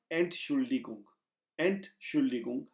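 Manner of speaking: एंटशुल्डिकुंग joined as one word, ent-SHUL-di-kung; pronunciation demo. Shown as a demonstration. Teacher joins the parts for students. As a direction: put एंट and शुल्डिकुंग together smoothly. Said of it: "आप इसको कहेंगे एंट".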